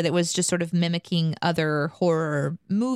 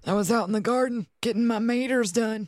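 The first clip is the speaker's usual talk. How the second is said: lightly voiced old man. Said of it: "how's Harold this morning".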